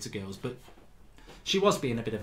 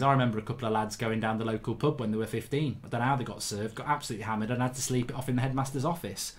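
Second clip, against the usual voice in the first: ordinary talk, nothing marked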